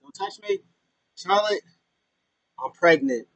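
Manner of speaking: hammed-up fragile protest; Lacey refusing. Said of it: "She's like".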